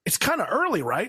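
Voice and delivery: high, swooping question; uneasy check-in. Retold or imitated. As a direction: voice jumps up, seeking reassurance. Acted friend worried it kicked in.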